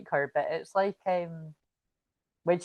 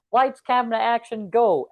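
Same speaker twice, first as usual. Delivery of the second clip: lightly acted director's call, louder and higher; mock director; 4 semitones higher, 5 dB louder than usual. Producers set up drunk contestants, mock director's cue. Acting out TV crew starting filming.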